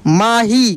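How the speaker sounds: माही joined, with a lengthened final ī; drawn-out long ī. Shown as a demonstration. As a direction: blend माही and stretch the ending. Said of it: "खींच कर किया जाता है". (माही की ई लंबी)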